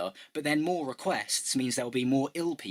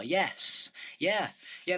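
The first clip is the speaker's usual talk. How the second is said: lads' squeaky answer; 8 semitones higher, much slower than usual. Retold or imitated. Voicing the lads, high and eager.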